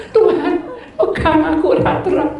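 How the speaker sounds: high, mock-tearful prayer; retold tearful plea. Frightened passenger begs God to hold on, retold tearful plea. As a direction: plead upward as if crying, half laughing. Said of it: "Saya nangis".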